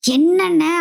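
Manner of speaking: short, high, lightly acted worry; retold tense reaction. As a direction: imitate an anxious younger brother's question. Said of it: "ரொம்ப tension ஆகுறாரு". (லேசா டென்ஷனா கேக்குற தம்பி போல)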